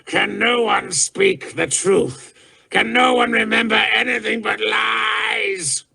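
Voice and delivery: high, shouted anguished fury; raving. A narrator's reading. Enraged warlord raving at the gathered courtiers. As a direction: rage at the whole room. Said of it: "still raving".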